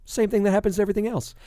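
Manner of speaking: fast, offhand tossed-off line; shrugging throwaway. Shown as a demonstration. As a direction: toss it away with a shrug.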